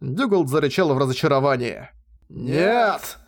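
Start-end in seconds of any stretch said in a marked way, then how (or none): 2.3-3.2 wailing cry. Acted. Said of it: "завопил он".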